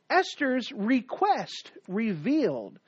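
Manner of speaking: slow, each word set apart; slow emphatic point heading. Shown as a demonstration. Preacher repeating his first point slowly for the notes. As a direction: spell out the sermon point slowly. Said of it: "the first thing I'd like to show you".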